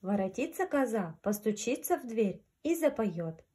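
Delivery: gentle storyteller voice; grandma telling fairy tale. A narrator's reading. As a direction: read it like a bedtime fairy tale. Reads fairy tale to children.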